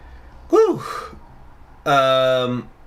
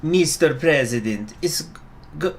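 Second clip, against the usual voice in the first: trying a character voice; 4 semitones higher than usual. Acted. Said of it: "How do I wanna do her voice?".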